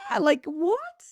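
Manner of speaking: high mock cry of disbelief; squeal, then a baffled question; overwhelmed. Listing endless signs to a spirit, mock overwhelmed.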